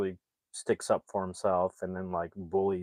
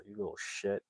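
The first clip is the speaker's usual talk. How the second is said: muttered, much softer aside; under her breath; 12 dB quieter than usual. Retold or imitated. Mom cursing at her kid underneath her breath, muttered. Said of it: "the mom underneath her breath says".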